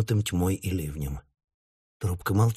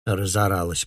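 grumbling. Acted. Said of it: "проворчала мама".

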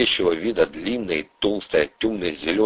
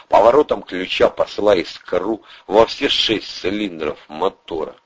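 normal talking voice

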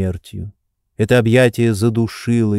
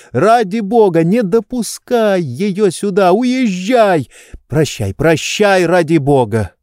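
Oblomov begs his friend to leave, voice pitched high in panic; frightened plea; 8 semitones higher than usual. A narrator's reading. Terrified Oblomov begs Stolz not to bring Olga in, high and pleading. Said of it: "у испуганного Обломова".

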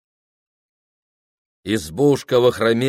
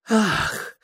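crowd gasp; 13 semitones higher than usual. A narrator's reading. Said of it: "тысяча грудей в церкви выдохнула".

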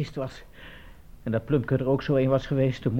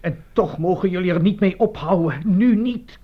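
louder and rising, hardest on nu niet; insist, growing louder to the end; defiant; 3 semitones higher, 6 dB louder than usual. Acted. (koppig, steeds luider)

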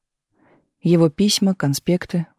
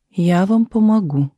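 resolute; 3 semitones higher, slower than usual. A narrator's reading. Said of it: "решительно сказала Любовь Ивановна".

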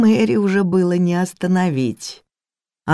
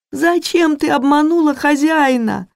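much higher wailing reproach; crying question; 11 semitones higher, 3 dB louder than usual. Acted. Maid reproaches the cook through tears, much higher wailing cry. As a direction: sob the question out.

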